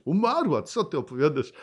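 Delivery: high, loud mocking protest; the physical man scoffing at Jesus; scoffing disbelief. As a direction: scoff as the worldly man who sees only death. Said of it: "a fizycznie".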